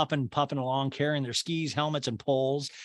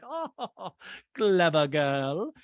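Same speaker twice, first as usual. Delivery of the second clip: Lisa; 3 semitones higher, much slower than usual. Retold or imitated. Podcaster imitating Lisa amused at Dorit, airy mock laugh. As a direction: laugh lightly, then slow right down. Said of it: "Lisa's laughing like".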